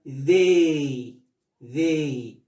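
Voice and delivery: "they" drawn out with a falling tune; pronunciation model. Shown as a demonstration. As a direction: model "they" twice, low and lengthened. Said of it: "Tenemos el pronombre".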